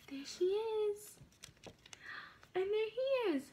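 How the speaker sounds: slow, hushed reveal; whisper. Real, not acted. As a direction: breathe it out slowly in a whisper.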